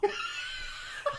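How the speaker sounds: laughing. Real, not acted. Laugh bursting mid-impression.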